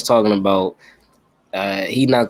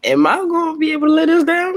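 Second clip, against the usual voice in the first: high-pitched worried wondering, acted out; reenacted high, doubtful question; retold self-questioning; 4 dB louder, faster than usual. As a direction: pitch it up as if asking yourself. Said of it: "I had to think about it".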